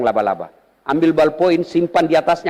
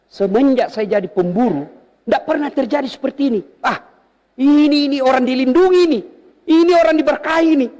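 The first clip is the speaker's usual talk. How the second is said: awed tracker; 10 semitones higher than usual. Retold or imitated. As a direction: marvel as the tracker. Tracker amazed at falling horse. (pemburu yang takjub)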